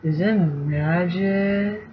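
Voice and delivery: soft, very slow dazed question; a hint of a stoned Sam; stoner Sam. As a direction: mellow stoner asking about the ring. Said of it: "voicing Sam like a stoner".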